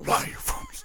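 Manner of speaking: whispered, hushed, held very still. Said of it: "He kinda whispers it".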